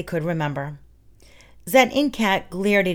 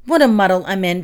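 cried; 5 dB louder, faster than usual. Acted. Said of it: "Penno cried".

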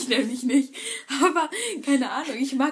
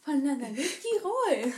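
intro announcer voice; 3 semitones higher, 6 dB quieter than usual. Pretend. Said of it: "jetzt kommt das Intro".

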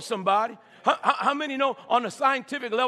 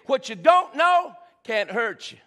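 shouted out to the congregation, rising on don't; loud proclaim; 4 dB louder than usual. Real, not acted. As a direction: call it out loud, lifting "don't". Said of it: "let me say that again for somebody".

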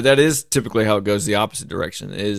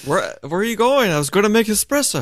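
movie quote voice; 11 semitones higher than usual. Retold or imitated. Quoting movie line playfully.

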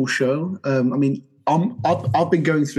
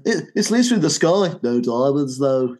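John in The Simpsons; 4 dB louder than usual. Retold or imitated. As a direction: mimic a cartoon Beatle, a bit hammed up. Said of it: "like John in The Simpsons".

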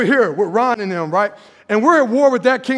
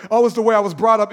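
mock excuse; 3 semitones lower, much faster than usual. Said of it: "We just come up with excuses".

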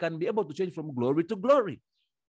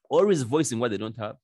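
normal talking voice

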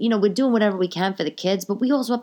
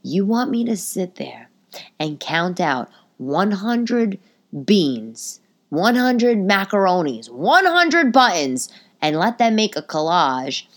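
sarcastic disbelief; slower than usual. Retold or imitated. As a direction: drag out each hundred in exasperation. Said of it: "And I'm just like".

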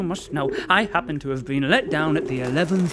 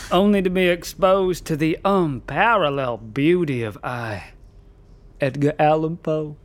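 put-on pompous recital in a Southern American accent; grand Southern American Poe. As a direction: boast like a Southern American poet. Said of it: "that weird accent".

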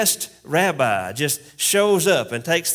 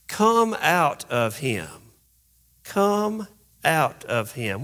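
firm command; slower than usual. Pretend. Jesus commanding the spirit.

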